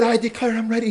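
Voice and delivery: put-on high, loud boyish declaration; insistent plea. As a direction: imitate a boy desperately insisting. Boy insists to the mentor.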